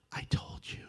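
whispered I-told-you; soft told-you-so. Pretend. Inner voice to Randy, whispered told-you-so. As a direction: breathe it smugly under the breath. Voice answers.

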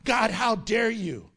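indignant challenge, acted out; mock angry world. The world confronts God, acted anger. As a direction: act out a touch of outrage. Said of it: "The world is angry and says to God".

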